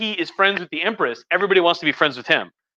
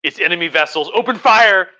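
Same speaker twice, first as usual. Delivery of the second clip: rising into a shout of open fire; a mock captain yelling the order; panicked captain; 3 dB louder than usual. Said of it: "they're like".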